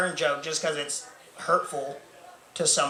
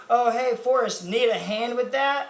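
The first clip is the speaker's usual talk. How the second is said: higher-pitched mock helpful coworker; imitated coworker; 5 semitones higher than usual. Coworker offers help to man mopping floor, imitated helpfulness.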